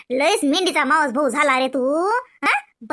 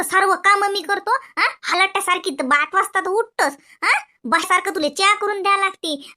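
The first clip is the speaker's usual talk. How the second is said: scolding mother. Acted. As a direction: nag and jab at her with every line. Mother scolds, quarrels loudly. (भांडखोर सासू रागाने ओरडते)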